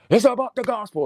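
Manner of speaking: imitating a slogan-spouting apologist; mock preachy apologist. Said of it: "nobody talks like that".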